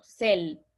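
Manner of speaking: "sel" said as one merged syllable; fuse "se" and "el" into "sel"; joined syllable. Shown as a demonstration. Teacher to class, repeating the merged syllable. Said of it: "se une esto".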